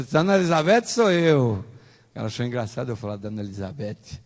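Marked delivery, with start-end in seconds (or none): 0.0-1.6 louder, drawn-out imitation of an amused woman; retold hearty amusement. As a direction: exclaim it slowly, as if amused. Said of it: "ela deu uma risada gostosa". (imitando alguém achando graça, em voz alta)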